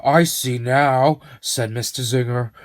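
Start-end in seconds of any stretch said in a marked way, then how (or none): 0.1-1.2 slow realisation. Acted.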